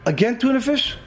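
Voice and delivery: a worker's irritated groan at his sandwich; exasperated. Retold or imitated. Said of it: "He got so angry".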